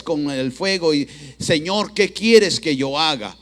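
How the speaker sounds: loud, forceful sermon delivery; emphatic preaching. Real, not acted. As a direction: press each phrase on the congregation.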